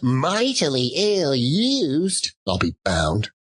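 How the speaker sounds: lightly voiced stingy old employer; Scrooge's voice. Miser grumbling at his clerk over a paid holiday.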